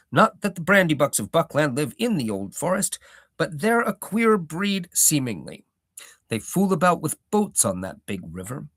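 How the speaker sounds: old hobbit gardener, lightly voiced, proud; a touch of a rustic old gardener holding forth; Gaffer's voice.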